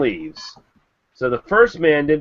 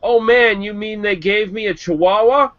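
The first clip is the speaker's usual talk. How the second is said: blurted surprise; 7 semitones higher than usual. Acted. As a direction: blurt it out in mock shock. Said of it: "the man blurts out".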